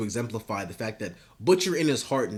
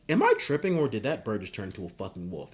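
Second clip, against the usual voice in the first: freaked-out disbelief; faster than usual. Retold or imitated. Hughie reacting to bird-wolf.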